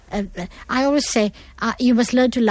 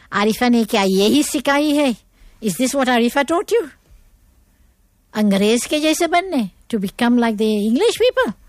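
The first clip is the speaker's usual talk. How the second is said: a hint of mocking relatives, pitched up; lightly voiced disapproving relatives; 3 semitones higher than usual. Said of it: "you know what they're going to say?".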